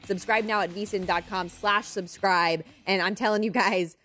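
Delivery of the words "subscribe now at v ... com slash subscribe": promo read, punched opening line. Real, not acted. Host plugging the betting guide to listeners, ad read. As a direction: sell the guide like a radio spot.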